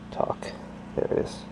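whispering. Real, not acted. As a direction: whisper so she stays asleep. Quiet while baby sleeps.

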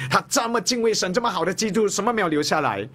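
high, disbelieving protest; incredulous question. Retold or imitated. Preacher voices the congregation's doubt, high and incredulous. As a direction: rise up in disbelief.

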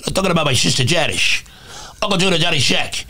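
thick, slurred "ish" on the s sounds; lightly put-on mob boss voice; Tony Soprano. Comic shows his practiced TV mobster impression, Tony Soprano voice. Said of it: "You know, when he talks".

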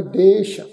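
ਦੇਸ਼ ending on a clear sh. Shown as a demonstration. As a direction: close ਦੇਸ਼ with sh, not s. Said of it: "ਬਿੰਦੀ ਲਾ ਕੇ ਉਚਾਰਨ ਕਰਾਂਗੇ".

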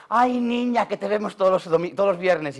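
lightly voiced old lady, gentle; a hint of a sweet old lady. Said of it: "las viejucas parándome y dice".

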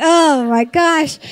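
mildly acted parental shock; exasperated disbelief. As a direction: draw it out like a stunned parent. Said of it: "we're like".

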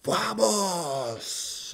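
high, soft shouted vamos; mock celebration shout. Fan recalling a player's celebration, shouting mock Vamos. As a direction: imitate the player's cry.

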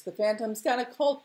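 high, lilting crowd call; singsong cry. Acted. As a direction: sing out the happy news. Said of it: "they sang".

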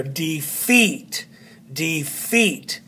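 defeat with FEAT carrying the accent; stress on second syllable. Shown as a demonstration. Teacher quizzing students on first or second, second syllable stressed. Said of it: "First or second?".

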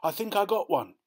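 put-on high-pitched boyish call; excited yell. A narrator's reading. Boy telling Dad he has a bite, excited yell. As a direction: yell it high, as if hooking a fish. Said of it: "Charlie yells".

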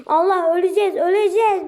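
panicked. Real, not acted. Panicking while losing game.

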